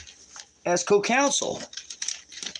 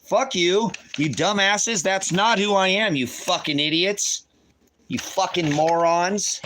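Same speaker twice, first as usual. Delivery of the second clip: furious cursing; 4 semitones higher than usual. Real, not acted. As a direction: spit the insults out in real fury. Cursing at the authorities.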